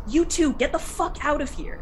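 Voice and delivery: high, loud command to a beast; stern dismissal. Acted. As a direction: shoo the wolf off firmly. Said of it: "she looks over at it and says".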